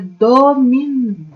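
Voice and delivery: syllable by syllable. Shown as a demonstration. Teacher breaks the word into syllables.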